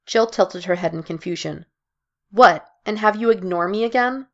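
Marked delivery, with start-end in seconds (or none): 2.3-4.3 quipping. Acted. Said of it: "she quipped".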